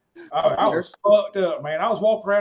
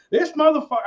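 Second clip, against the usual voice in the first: mock dazed groan; 9 semitones higher, 5 dB louder than usual. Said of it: "I'm like".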